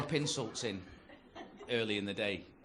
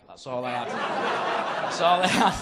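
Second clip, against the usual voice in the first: rising desperate shout, drawn out at the end; desperate outburst; 10 dB louder, much slower than usual. Acted. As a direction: yell it as a helpless admission. Punchline weakness confessed in desperate outburst.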